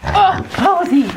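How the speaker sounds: high, slow, fond telling-off; high fond scolding. Real, not acted. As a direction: chide the pig fondly. Scolding pig fondly.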